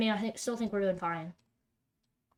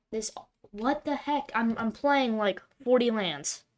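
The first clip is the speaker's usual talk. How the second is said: exasperated disbelief; 2 semitones higher, 7 dB louder, slower than usual. Real, not acted. Frustrated gamer missing land drops.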